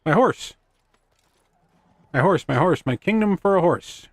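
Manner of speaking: theatrical, rising cry for a horse; dramatic Shakespeare quote. Pretend. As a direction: declaim it like a desperate king. Quoting Richard the Third dramatically.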